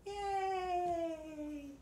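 high bright cheer of Yay!; video cheer. Real, not acted. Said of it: "video cheer".

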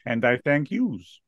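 put-on New Jersey accent. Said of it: "the best New Jersey accent ever".

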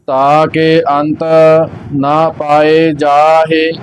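measured chanting of gurbani; scripture recitation. Acted. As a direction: recite steadily, line by line. Reciting Japji Sahib. (ਗੁਰਬਾਣੀ ਦਾ ਪਾਠ)

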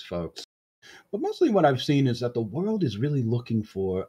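lightly voiced demagogue, rising on the grievances; Leroy, persuasive usurper. Usurper addressing the crowd about war crimes, lightly voiced oratory.

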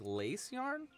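usual speaking voice

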